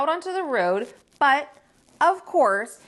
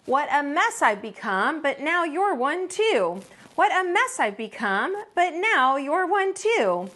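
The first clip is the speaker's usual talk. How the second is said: singsong repeating; 4 semitones higher than usual. Acted. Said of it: "saying just that".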